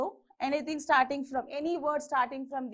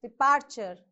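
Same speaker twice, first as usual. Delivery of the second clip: Departure with the middle syllable stressed; dePARture, lean on the P syllable of Departure; 3 semitones lower, 3 dB louder than usual. Shown as a demonstration. Teacher demonstrating Departure, stressed on the P syllable. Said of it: "Stress on P".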